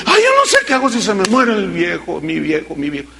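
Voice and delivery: hammed-up widow fading into a moan; a pastor mocking a wife's lament. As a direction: mimic a wife wailing over her husband, fading away.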